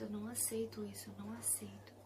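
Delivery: soft whispered prayer of refusal; quiet whispered rejection. Retold or imitated. Rejecting the word, praying.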